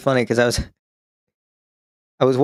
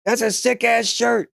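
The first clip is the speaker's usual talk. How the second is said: high, slow call over ringing ears; much higher, drawn-out yell to a stranger; 12 semitones higher, slower than usual. Retold or imitated. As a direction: shout a compliment you can't hear yourself say. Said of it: "So I was like".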